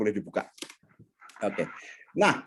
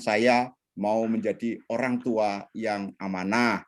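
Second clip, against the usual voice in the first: calm self-talk; 4 semitones lower than usual. Shown as a demonstration. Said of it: "sentuh tubuhmu sendiri dan katakan".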